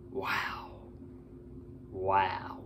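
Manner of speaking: wow through a yawn. Real, not acted. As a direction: yawn while saying it. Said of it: "Excuse me if I'm yawning".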